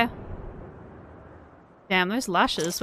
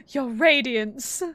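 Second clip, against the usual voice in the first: mocking echo; slower than usual.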